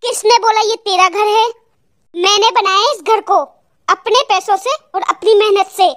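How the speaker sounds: controlled, indignant anger; angry. Acted. Husband telling wife to leave with her mother, angry. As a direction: throw it back at them with restrained anger. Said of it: "आज ये इतने गुस्से में क्यों बात कर रहे हैं".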